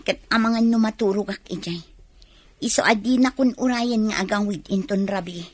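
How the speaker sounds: loud defiant reply to mother. Acted. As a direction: push back at her mother, loud. Amanda quarrels with her mother.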